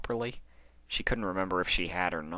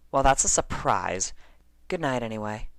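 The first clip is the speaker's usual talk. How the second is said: Bon Bon; 6 semitones higher, 4 dB louder than usual. Acted. Friend replies, rolls eyes.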